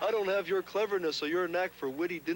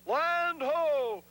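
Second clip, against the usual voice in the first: hammed-up pilgrim actor; 6 semitones higher than usual. Child acting in school play.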